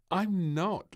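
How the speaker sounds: put-on a maid chuckling at the child; laughing lightly. A narrator's reading. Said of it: "laughed the maid".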